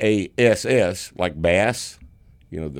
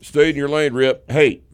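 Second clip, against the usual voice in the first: mock taunt; 7 semitones higher, 6 dB louder than usual. Echoing the call-out louder.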